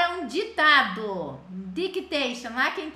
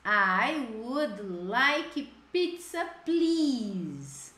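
slow model phrase; slower than usual. Shown as a demonstration. Teacher modeling the phrase for students, slow and clear. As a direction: spell it out slowly for the class.

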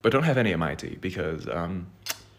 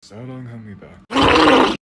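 Donald Duck; 3 semitones higher, 9 dB louder, much slower than usual. Pretend. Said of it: "Donald Duck instead of Minnie".

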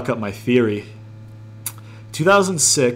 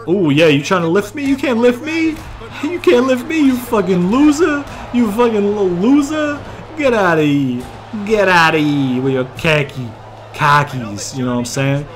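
Boston meme voice; 6 semitones higher than usual. Pretend. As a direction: jeer like a Boston meme bro, pitched way up. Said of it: "I just did a fucking Boston meme".

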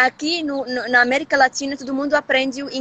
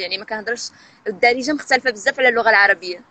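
Moroccan dialect; much faster than usual. Shown as a demonstration. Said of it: "me apresentar no dialeto".

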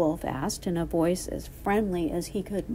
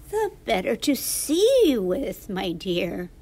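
wolf posing as Granny; 5 dB louder than usual. Acted. Wolf poses as grandmother.

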